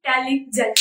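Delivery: इंटेलिजेंट chopped as इन-टेलि-जेंट; इंटेलिजेंट in separate chunks; broken into syllables. Shown as a demonstration. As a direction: say "इंटेलिजेंट" with a catch between parts. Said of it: "बोलने में बहुत सारी आपको दिक्कतें".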